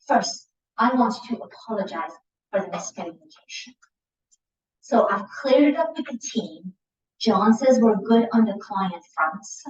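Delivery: earn back the trust gently; remorseful. Shown as a demonstration. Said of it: "my tone will come across as remorseful".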